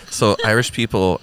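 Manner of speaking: normal talking voice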